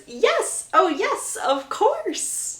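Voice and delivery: high, bright, overjoyed acceptance; gushing, delighted yes; excited yes. Acted. Lucy accepting Gregory's proposal, high and overjoyed.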